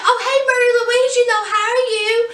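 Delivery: high, fast, over-bright greeting, imitated; hyper and talking fast. Wound-up Madeline rushing her greeting to Mary Louise, hyper. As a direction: gush at her in a rush, all nerves. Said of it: "she's talking a mile a minute".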